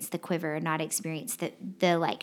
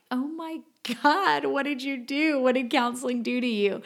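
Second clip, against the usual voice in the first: higher, lightly voiced alarm at the husband's state; half-acted disbelief, pitched up; retold shock; 5 semitones higher than usual. Wife recalls seeing her husband sobbing after counseling, mock alarmed.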